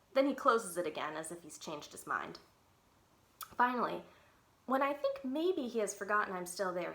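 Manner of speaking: lively read-aloud chapter book voice; story narration. Acted. Teacher reads chapter book aloud.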